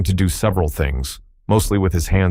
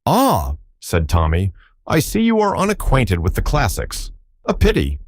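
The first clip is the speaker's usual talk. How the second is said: airy, much higher mock regret; mock pity; 4 semitones higher than usual. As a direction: look down your nose at him, lilting high. Tommy mocking the villain.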